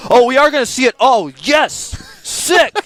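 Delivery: high-pitched, delighted outburst; excited cheering. Real, not acted. Caster finally gets to see the feed, excited cheering. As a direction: burst out cheering, with a laugh.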